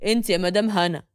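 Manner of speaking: low, cool and unbothered; a lightly voiced cold husband; coldly. Reda calmly tells Hana she is the wife, low and cool. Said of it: "وبيقول ببرود".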